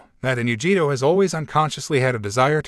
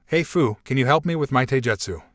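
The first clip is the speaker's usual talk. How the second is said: sweet voice. Acted. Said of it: "using the sweetest voice that he could conjure".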